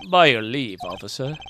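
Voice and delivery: courteous, lightly British request; British accent. Acted. Gentleman asking the officer's leave, British accent. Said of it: "keep the British accent".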